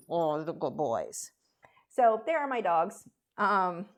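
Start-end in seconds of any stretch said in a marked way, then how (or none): 0.1-1.3 whisper. Real, not acted. Whispering about sleeping dogs.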